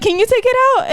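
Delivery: high, loud helpless plea; flustered woman imitation. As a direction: imitate a stranger pleading in a panic.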